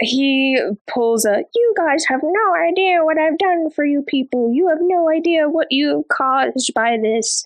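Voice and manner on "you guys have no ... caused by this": dramatic, whiny, pitched-up, acted delivery. Discussing a book scene, quoting the Lord Ruler before his death, whiny Lord Ruler voice. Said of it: "I love you're putting it in a whiny voice".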